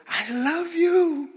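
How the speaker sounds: high, slow, stiff robot voice; a retold machine saying it oddly sweetly; mock cyborg lover. Cyborg's line retold from movie.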